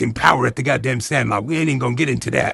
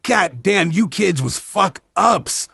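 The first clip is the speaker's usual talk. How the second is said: exasperated yell; 6 semitones higher than usual. Real, not acted. Exasperated rant at movie kids.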